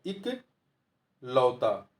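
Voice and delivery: इकलौता stretched very slowly, each syllable held; teacher dictating इकलौता very slowly; slow spelling demo. Shown as a demonstration. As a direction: lay out इकलौता sound by sound. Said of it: "ना कि ए लगा होता है".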